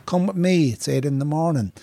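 a cheery invitation to come look, starting high; imitating the fairy-house man. Instagram man inviting his viewers to check the fairies, high and eager. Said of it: "and he goes".

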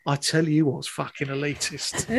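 low, quiet mock hard man, laughing; family catchphrase. Teller repeating the household saying, low and laughing. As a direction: quote the thug line with a grin. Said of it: "a saying in my house".

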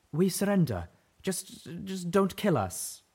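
high, loud, then slow and halting; frightened pleading. A narrator's reading. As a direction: beg them not to shoot. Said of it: "she called out".

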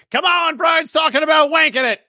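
high excited shout from the relatives. Retold or imitated. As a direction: yell it up high like a relative calling through the house. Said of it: "are running around the house being like".

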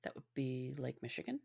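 unvoiced, dry whisper; deadpan whisper. Real, not acted. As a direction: whisper the obvious answer, deadpan. Deadpan answer to obvious question.

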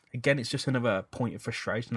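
speaking with sniffles and a blocked nose; sniffly nose. Real, not acted. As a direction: talk through a sniffly cold nose. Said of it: "I'm sorry for the sniffles again".

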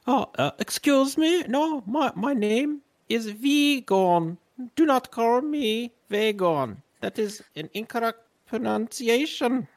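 prim, indignant correcting; offended, put-upon noble; haughty character voice. Acted. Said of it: "I'll see if I can get my voice here".

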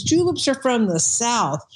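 slow, mild imitation of a thick Southern accent; lightly drawn-out Southern accent, imitating a club member. Bartender mimics a club member's thick Southern accent. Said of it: "he had this really thick accent".

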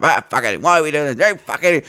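mock irritable grumbling; angry, pissed off. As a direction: imitate a fed-up doctor griping. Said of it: "everything's fucking angry, pissed off".

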